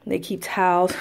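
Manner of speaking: winded from climbing the stairs; slightly breathless after the stairs; out of breath. Real, not acted. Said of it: "I'm out of breath".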